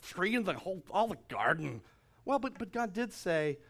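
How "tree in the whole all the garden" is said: high, fast voice for the woman; the preacher mimics Eve in a high voice for the church; mimicking the woman. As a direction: play Eve eagerly correcting the serpent. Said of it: "and she's like".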